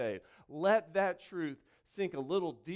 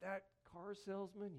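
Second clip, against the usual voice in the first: mock misquote; 4 semitones higher than usual. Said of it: "It doesn't start".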